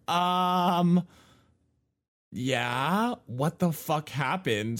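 high, loud, stunned reply; disbelieving what-happened, slowing down; shocked disbelief. Retold or imitated. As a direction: react like you can't believe your eyes.

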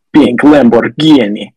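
imitating a masculine singer's line, slow and drawn out; masculine impression. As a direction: draw it out in mock-macho imitation. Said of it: "she sounded more masculine than I could ever hope to".

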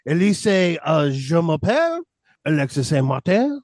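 put-on halting joke French Canadian accent; mock French accent. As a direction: fumble the French intro in a playful French Canadian accent. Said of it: "Get your French Canadian accent".

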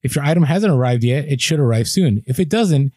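reading the email. Retold or imitated. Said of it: "you get this email that says".

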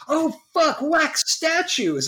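excited shriek. Retold or imitated. Friend excited about wax statues.

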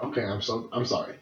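hushed, low mumbled sorry; sheepish, soft retold apology; chastened apology. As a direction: apologize very quietly, giving in. Chastened son apologizing to parents.

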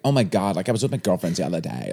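lightly voiced Valley Girl; a hint of Valley Girl talk. Shown as a demonstration. Host shows guest what to do, light Valley Girl impression. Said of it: "Like, do a Valley Girl".

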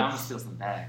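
mock sneaky quiet. Thief's imagined plan.

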